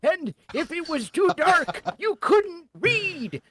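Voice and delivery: put-on old man voice. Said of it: "my generic old man voice".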